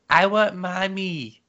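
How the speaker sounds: high, slow fake-crying whine; mock crying child. Dad imitating his son faking tears to escape trouble, mock crying. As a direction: imitate a kid putting on tears for mommy. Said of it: "like he's crying and goes".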